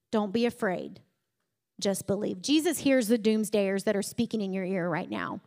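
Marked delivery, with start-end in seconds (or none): 0.1-2.4 reassuring. Retold or imitated. Jesus reassures Jairus.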